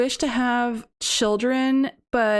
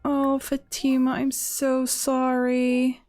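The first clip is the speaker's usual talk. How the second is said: sad; slower than usual. Real, not acted. Mourning Fatima.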